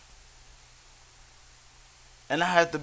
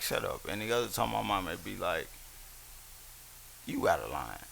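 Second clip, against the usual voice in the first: mom's scolding; 6 semitones lower, 9 dB quieter than usual. Retold or imitated. Quoting a scolding mother.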